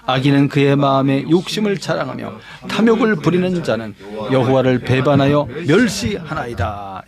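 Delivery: low, even verse recitation; scripture reading. Acted. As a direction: read it out evenly, as with a congregation. 성경 구절을 함께 낭독. (낮고 고른 성경 낭독)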